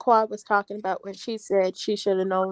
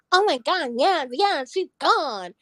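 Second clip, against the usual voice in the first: giddy; 6 semitones higher, slower than usual. Retold or imitated. Retold reaction, high giddy voice.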